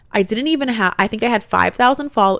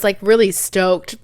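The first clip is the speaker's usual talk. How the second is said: drawn-out stoked; slower than usual. Real, not acted. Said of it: "pretending to be stoked".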